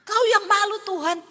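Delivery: high and loud, with the stress on yang; mock accusing prayer. The preacher mimics believers who threaten God, loud and high. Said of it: "tanpa sengaja ngomong begitu".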